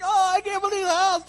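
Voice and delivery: hammed-up high, loud shriek; imitated screaming disbelief; overwhelmed excitement. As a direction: squeal like an astonished makeover family. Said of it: "and they're like".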